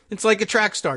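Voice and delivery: mock-impressed repetition of "track star"; sarcastic repeat. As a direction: parrot it back as if it were a profound insight. Host sarcastically repeats Trump's line.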